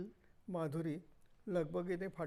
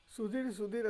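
put-on a touch higher, calling a child's name while running; hailing the lost boy; father calling out for his son Sudhir; 4 semitones higher than usual. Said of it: "असं ओरडत एक गृहस्थ धावत आले".

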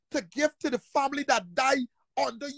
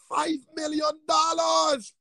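slow, higher shouted figure; disbelieving slow yell; outraged shout; 4 semitones higher, slower than usual. Real, not acted. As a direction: stretch out the outrage. Outraged at the sum.

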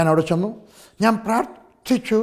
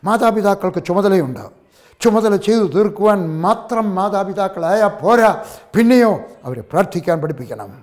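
preacher scolding parents, full-force sermon; fiery preaching. Acted. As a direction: preach it hard to the congregation. Preacher exhorts congregation on prayer.

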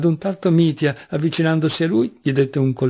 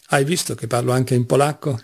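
joking remark into a chuckle; amused. Acted. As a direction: finish the boast with a little laugh. Mitya jokes, then laughs. (divertito, con una risatina finale)

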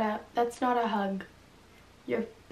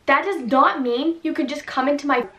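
louder, furious homeowner; angry; 3 semitones higher, 5 dB louder than usual. Acted. Girl yells at the man in her house, furious. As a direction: tell the intruder off hard. Acted quarrel with intruder.

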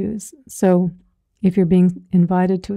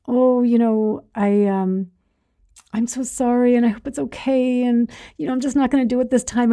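mock a meek boundary, fast at the end; lightly hammed-up timid excuse; meek, weak refusal; 3 semitones higher than usual. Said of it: "meekly and weakly set a boundary".

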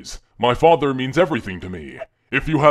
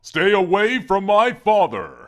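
put-on little girl voice; 6 semitones higher than usual. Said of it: "What kind of little girl voice is that?".

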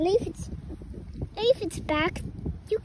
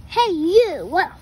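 challenging shout; 8 dB louder than usual. Acted. Grouchy ladybug picks a fight.

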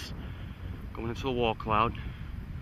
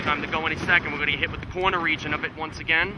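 fast, tense and higher; urgent; 4 semitones higher, faster than usual. Real, not acted. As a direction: hurry it out, storm closing in. Chaser fleeing approaching storm.

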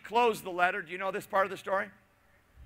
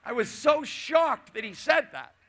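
shocked; 4 semitones higher, 4 dB louder than usual. Real, not acted. Shock at mentor's remark.

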